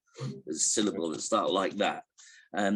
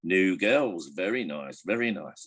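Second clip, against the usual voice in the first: lightly voiced parrot; hint of a parrot appraising newcomers. Parrot looks at two teenage girls, lightly voiced parrot. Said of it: "the parrot looks at the two teenage girls and goes".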